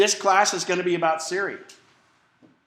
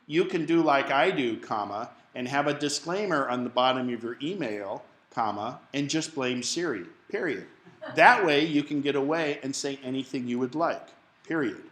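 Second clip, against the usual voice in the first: dictating. Shown as a demonstration. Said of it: "I'm gonna show you a little example of this".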